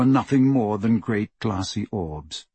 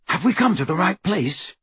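higher-pitched, uneasy query; anxious question; 8 semitones higher than usual. A narrator's reading. Harry to Dobby in the darkness, anxious. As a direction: ask it uncertainly, pitch raised.

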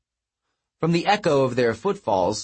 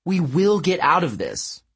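higher-pitched, firm reassurance; reassuring; 7 semitones higher than usual. A narrator's reading. Heroine rallying her friend against the giant, reassuring. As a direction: reassure with conviction. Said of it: "filling her voice with reassurance".

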